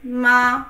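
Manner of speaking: Ma short and light; neutral tone ma. Shown as a demonstration. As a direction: tap Ma quickly and lightly. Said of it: "I mean curse".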